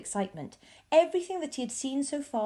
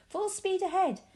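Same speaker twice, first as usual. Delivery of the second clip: high, eager command; higher, gleeful order; excited cry; 9 semitones higher than usual. A narrator's reading. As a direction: urge them on at full tilt. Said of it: "shouted Mister Wonka".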